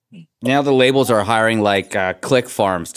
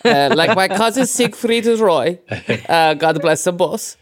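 put-on hammy movie-villain German accent; higher, thick German accent impression; a singer's German accent; 5 semitones higher than usual. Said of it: "he sounded like when you do a German accent".

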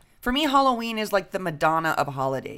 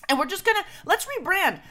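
rallying rebrand pitch; 11 semitones higher than usual. Retold or imitated. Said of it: "They had to be like".

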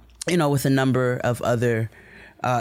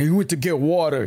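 mock ignorant American accent. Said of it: "what he deems to be an ignorant American accent".

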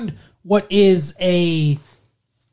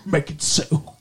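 imitating a starship captain's English accent; Jean-Luc Picard; 3 semitones lower than usual. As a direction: put on an English accent, low. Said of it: "he speaks like this".

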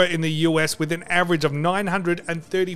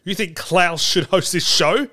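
stunned, slow, repeating the question; slow incredulous. Acted. Host mocking a fan's idea, slowly incredulous. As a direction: drag out you think in mock disbelief.

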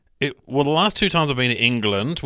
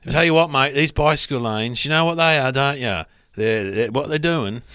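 Cockney taxi driver. Retold or imitated. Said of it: "she spoke like that too".

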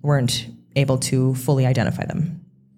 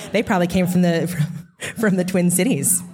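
put-on Midwestern accent; 3 semitones higher than usual. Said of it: "working on my, my Midwestern accent".

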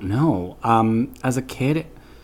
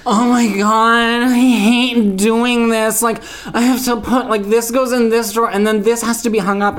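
whining; 9 semitones higher than usual. Retold or imitated. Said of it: "like, adults who whine".

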